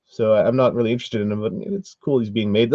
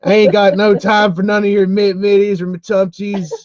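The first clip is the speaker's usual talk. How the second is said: sassy; 8 semitones higher, 5 dB louder than usual. Pretend. Playful sassy rant.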